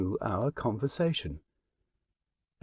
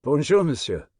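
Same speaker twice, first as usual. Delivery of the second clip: a courteous bow in French, Bonjour said plainly; polite French greeting; 4 semitones higher, 6 dB louder than usual. Acted. Narrator greeting the stranger with a polite French bonjour. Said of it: "with a polite bow".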